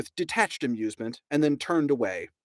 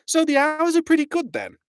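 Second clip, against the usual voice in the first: much higher, loud mock-chummy question; coaxing Ford; 6 dB louder than usual. A narrator's reading. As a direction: draw him out with fake interest.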